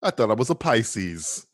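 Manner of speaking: Joker quote. Retold or imitated. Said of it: "Enough with the Batman eighty-nine quotes".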